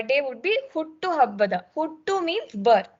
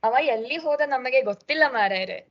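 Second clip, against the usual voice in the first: lightly voiced Mangalore coastal Kannada, quick; a hint of a Mangalore local; coastal Karnataka accent; much faster than usual. Shown as a demonstration. Teacher showing the students how coastal Mangalore people say it, a light coastal accent. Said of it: "if you come to Mangalore".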